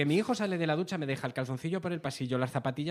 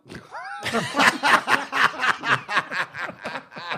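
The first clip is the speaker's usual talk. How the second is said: real burst of laughter; loud laugh; 8 semitones higher, 7 dB louder than usual. Real, not acted. Laughing at the joke about his son's accent.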